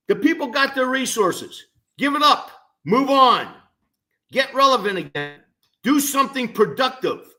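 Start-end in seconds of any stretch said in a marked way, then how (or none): 2.0-7.3 louder and higher, punching each order; emphatic telling-off. Real, not acted. Host telling the NCAA to let it go, loud and emphatic. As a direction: bark it at them to drop it.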